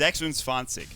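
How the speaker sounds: "Sechsundzwanzig" said as zeks-oont-tsvan-tsikh in German; "Sechsundzwanzig" with German sounds. Shown as a demonstration. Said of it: "It's German".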